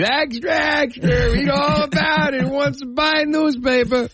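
newsboy shouting extra extra; rapid old-time reporter. Retold or imitated. Newsboy hawking papers on street.

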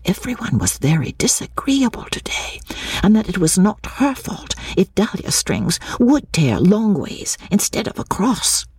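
put-on high, hushed child's complaint; whispered complaint. A narrator's reading. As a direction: confide a grievance in a small, high voice. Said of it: "slipped to her uncle and whispered".

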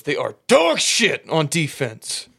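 very slow, dragged-out put-down; pissed-off coach. Retold or imitated. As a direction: let every word land like a verdict. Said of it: "he's pissed off".

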